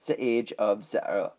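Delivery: mock German accent with z sounds. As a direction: say it like a German would. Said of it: "Oh, I can't do Earth".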